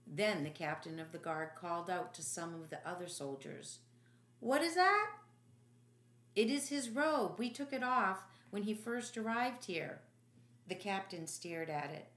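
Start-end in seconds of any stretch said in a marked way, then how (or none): 4.4-10.0 much higher, louder barked question; sharp call. Acted. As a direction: call out across the room. Captain calls out, soldier answers.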